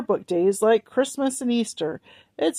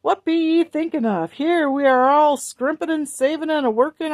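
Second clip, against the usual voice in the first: higher, sharp scolding voice; scolding mother; 7 semitones higher than usual. A narrator's reading. Mother scolding her children, sharp and high. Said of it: "snapped Missus Griswold".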